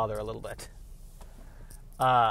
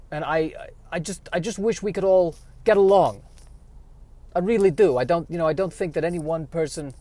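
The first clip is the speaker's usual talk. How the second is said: put-on Yiddish-accented squirrel; 3 semitones higher than usual. Squirrel character monologue.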